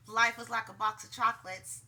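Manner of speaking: lightly attempted Southern accent; a hint of Forrest Gump's Southern accent, badly done; half-hearted Southern movie-quote accent. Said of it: "That was such a bad accent".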